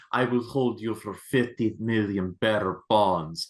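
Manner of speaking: a hint of a pompous villain; lightly voiced smug villain; mock villain. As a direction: quote the dumb crook grandly. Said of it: "the dude is like".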